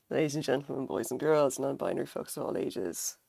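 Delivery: raspy sick voice, grand greeting; hoarse voice. Real, not acted. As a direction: boom it out hoarsely. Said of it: "I sound a bit like Darth Vader".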